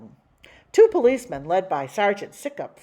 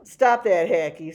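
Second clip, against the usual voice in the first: smirking; 7 dB louder than usual. Acted. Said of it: "with a smirk".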